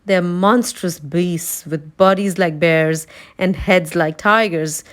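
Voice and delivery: slow, ominous lion; slowly, as if telling of monsters; fearful lion voice. Acted.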